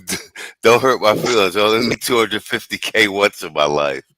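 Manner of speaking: giggling through a mock plea; quoting the podcast while cracking up; laughing mock quote. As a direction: break up laughing mid-line, then steady. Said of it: "No News Podcast said".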